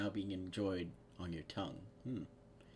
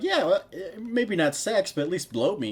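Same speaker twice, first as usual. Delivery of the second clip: blurted, higher and much louder; loud, pleading quote; 10 semitones higher, 10 dB louder than usual. Acted. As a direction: act out a shameless, pushy request. Acted quote of a crude request.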